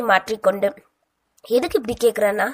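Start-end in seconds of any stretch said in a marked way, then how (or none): 1.4-2.5 suspicious. Acted. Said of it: "சந்தேகமாய் கேட்டாள்".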